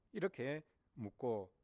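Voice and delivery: ordinary talk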